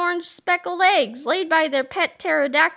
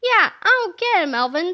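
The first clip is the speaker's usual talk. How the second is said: higher, louder, doubtful questioning; suspicious; 3 semitones higher, 5 dB louder than usual. Acted. George questions Melvin's sudden kindness, a touch of suspicion. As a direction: press him like you don't trust him. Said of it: "said George suspiciously".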